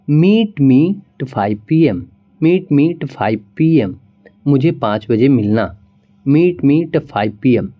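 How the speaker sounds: "to" (at) clipped to a light "t", meet me t' five; slow, clipped "at" as just "t"; reduced "at". Shown as a demonstration. Teacher demonstrating reduced "at". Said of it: "टी ही pronounce करेंगे".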